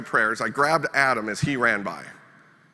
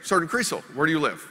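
higher, eager quizzing buddy; goofy questioning; 6 semitones higher than usual. Retold or imitated. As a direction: play the dim friend firing questions. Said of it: "He's like".

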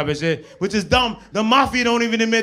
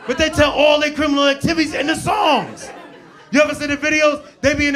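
raised excited voice; shouting; 6 semitones higher than usual. Real, not acted. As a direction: belt it out, laughing. Comic rant peak.

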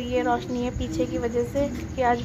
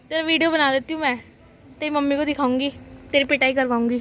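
playful threat; 5 dB louder, faster than usual. Real, not acted. Mock threat to child.

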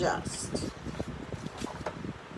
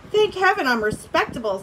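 a hint of lofty dignity; proudly composed lion line; dignified; 3 semitones higher, 3 dB louder than usual. Lion defending his honour, mildly dignified. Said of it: "said the lion with dignity".

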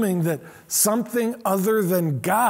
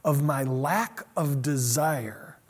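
slow, soft confessing prayer; humble prayer; 2 semitones lower, 4 dB quieter, slower than usual. Retold or imitated. Tozer confessing to God, soft and slow. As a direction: pray it in quiet shame. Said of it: "he says".

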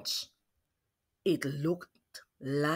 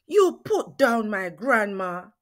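yelled; 4 dB louder than usual. Acted. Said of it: "I yelled".

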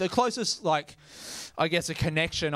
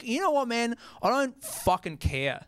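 annoyed; 3 semitones higher than usual. Retold or imitated. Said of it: "it makes me angry when I hear that".

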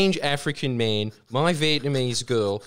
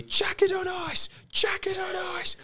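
urgent whisper. Retold or imitated. Someone in the kitchen urging the eel onto ice, whispered. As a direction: hiss the order under your breath. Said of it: "and then you hear".

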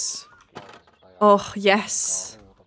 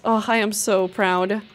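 ordinary talk

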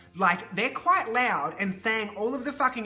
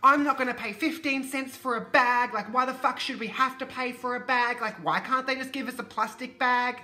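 put-on higher-pitched, indignant grumbling old woman; Margaret complaining; 4 semitones higher than usual. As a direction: put on a whingeing, sweary customer's higher voice. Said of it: "Margaret, going".

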